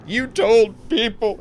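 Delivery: loud, high, drawn-out mock wail; slow, hammed-up bawling; mock crying. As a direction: imitate a grown man crying out an accusation. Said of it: "He's crying".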